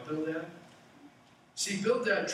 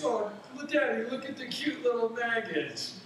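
put-on high, bright-eyed child voice, higher and louder; a kid delighted with his find; excited little boy; 8 semitones higher, 3 dB louder than usual. Boy shows his father a handful of maggots, excited child voice. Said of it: "the father sees the son".

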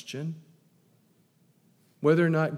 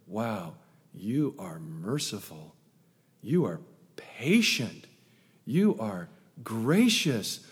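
humble prayer. Retold or imitated. Voicing grateful prayer.

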